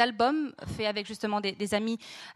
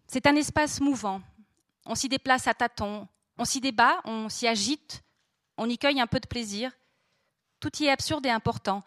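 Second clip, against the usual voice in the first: measured reading aloud, pauses between phrases; literary reading. Acted. Host reads a favourite passage to the audience, measured literary reading. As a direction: read the passage out, letting each sentence settle.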